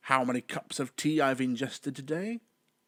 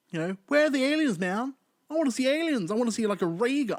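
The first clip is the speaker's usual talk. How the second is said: excited demand; 11 semitones higher, 5 dB louder, faster than usual. Acted. Demanding aliens from Doctor Who.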